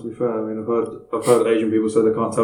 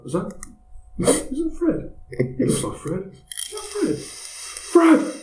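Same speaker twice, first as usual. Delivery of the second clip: calling out; much slower than usual. Retold or imitated. Calling out to a lookalike.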